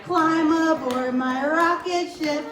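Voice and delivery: put-on bright singsong countdown for kids; kindergarten teacher voice. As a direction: lead the little ones like a preschool teacher. Preschool teacher leading rocket song.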